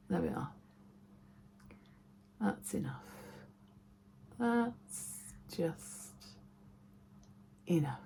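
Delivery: soft whispered aside to herself; whispering. Real, not acted. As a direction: breathe it under your breath. Muttering to self while applying.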